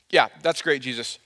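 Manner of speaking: lightly acted sarcastic approval; passive-aggressive. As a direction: imitate a mom pretending it's fine. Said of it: "very passive aggressively".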